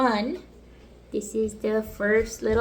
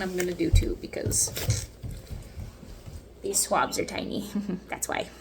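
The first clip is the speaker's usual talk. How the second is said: soft whisper to the camera; 2 semitones lower, 4 dB quieter than usual. Real, not acted. Talking softly over goat kids.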